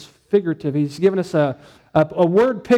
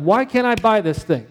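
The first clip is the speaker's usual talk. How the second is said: frustrated; 4 semitones higher than usual. Retold or imitated. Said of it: "I'm just getting frustrated".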